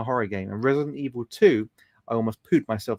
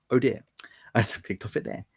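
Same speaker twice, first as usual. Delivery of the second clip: whisper; 3 semitones lower, 4 dB quieter than usual. Real, not acted. Muttering after misclick.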